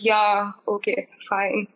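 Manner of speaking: understated sarcastic agreement, dropping off at the end; sarcastic reply. Retold or imitated. Replying to relatives who say don't cry, mildly sarcastic. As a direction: give in with mild, dismissive sarcasm. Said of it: "like a sarcastic reply".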